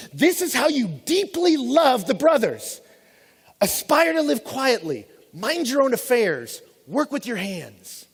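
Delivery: slow, weighty, mock-solemn reading; grand buildup. Shown as a demonstration. Preacher reading Paul's plain advice slowly, like an epic reveal. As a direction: deliver each line slowly like a big reveal. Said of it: "gonna be huge and just kinda epic".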